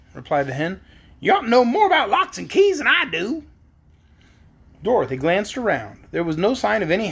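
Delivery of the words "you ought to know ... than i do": high hen voice; reply as a talking hen; high-pitched hen, disclaiming; yellow hen. A narrator's reading. Storyteller voicing the yellow hen.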